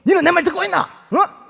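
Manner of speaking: put-on angry father blowing up at his child in dialect; exploding in Gyeongsang dialect. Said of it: "성질이 나니까".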